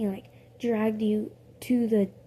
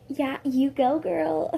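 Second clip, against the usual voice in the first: lightly raised cheer; milder cheer; 4 semitones higher, 5 dB louder, slower than usual. Retold or imitated. Gwen cheering on the fight, a milder cheer. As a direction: cheer her on, toned down. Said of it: "no, Gwen was like".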